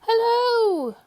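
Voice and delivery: very high, squeaky little hello; tiny voice. Acted. Mister Small calling up to Mister Tall, tiny high squeak. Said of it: "a little voice".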